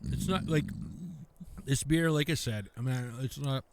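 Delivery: talking through a mouthful of food; chewing while talking; mouth full. Real, not acted. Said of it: "Can't talk with food in my mouth".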